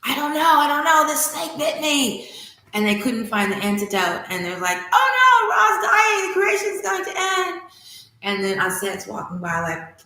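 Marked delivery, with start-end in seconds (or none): 0.0-2.3 higher, louder helpless whine; whimpering god. Acted. Ra answers the gods. 4.9-7.6 very high, loud mock panic; panicking gods.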